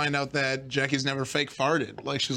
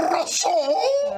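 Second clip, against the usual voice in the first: put-on French accent; 12 semitones higher than usual. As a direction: wail the word like a French chef. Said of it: "He's speaking French".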